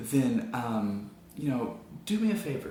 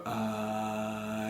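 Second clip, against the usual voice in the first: soft airy ah; breathy tone; 3 semitones lower, 5 dB quieter than usual. Shown as a demonstration. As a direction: cords staying open. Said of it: "and then they go".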